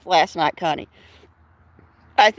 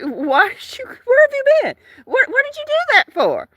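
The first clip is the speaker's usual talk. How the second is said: upset cat voice; 12 semitones higher than usual. Retold or imitated. Cat scolding his owner for coming home late, whiny high wail. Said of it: "He's like".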